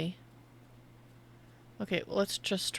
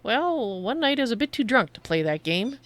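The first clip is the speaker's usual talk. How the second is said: secretive raspy sales murmur. Acted. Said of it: "My name is Laurent".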